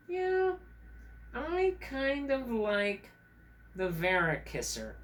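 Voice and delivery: high, slow squirrel puppet; Red Squirrel. Acted. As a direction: draw it out in a high little critter voice. Red Squirrel puppet picks favorite creature.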